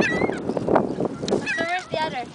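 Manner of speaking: high, slow cooing. Real, not acted. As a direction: coo it like to a pet. Talking to birds, high slow.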